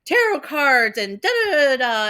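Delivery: hammed-up excited girly pop; mock girly pop. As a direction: gush over tarot cards like a mock fan. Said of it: "those girly pop moments where I'm like".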